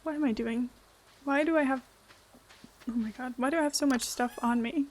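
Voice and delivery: talking through hiccups; words broken by hiccups. Real, not acted. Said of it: "I'm, like, hiccuping".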